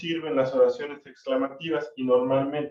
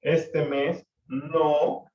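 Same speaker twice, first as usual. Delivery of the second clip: drawn out very slowly; very slow example; much slower than usual. Shown as a demonstration. (muy lento, remarcando cada palabra)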